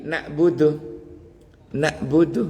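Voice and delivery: "nak budu" with a glottal stop, no ain; wrong hamzah reading. Shown as a demonstration. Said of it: "alif yang mati". (contoh salah "nak budu" dengan hamzah)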